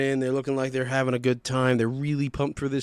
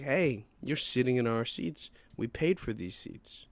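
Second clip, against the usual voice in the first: slow, mild-mannered polite complaint; 5 dB quieter than usual. Retold or imitated. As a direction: point it out gently and unhurriedly. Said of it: "just very politely was like".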